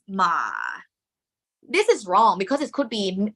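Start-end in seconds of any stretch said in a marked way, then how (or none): 0.1-0.5 "ma" dropping down into low pitch; falling, low-ending "ma"; low tone variant. Shown as a demonstration. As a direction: let "ma" slide lower as it ends. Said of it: "some people draw the tone like this".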